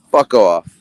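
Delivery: dismissive. Retold or imitated. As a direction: tell her off in a single shot. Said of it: "I'm like".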